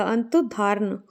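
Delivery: अंत धारण said in two slow parts, अंत then धारण; broken-down spelling. Shown as a demonstration. Teacher spelling out the word for students, अंत धारण in separate parts. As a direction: slowly split it as "अंत / धारण". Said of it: "अंत ध्यान नहीं होता ऐसे".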